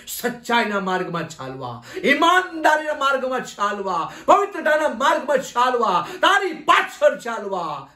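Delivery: rhythmic, repeated pleas rising in waves; fervent prayer. Real, not acted. Pastor begging the Lord to wipe tears and touch everyone, fervent prayer. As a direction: plead each petition insistently, like a litany.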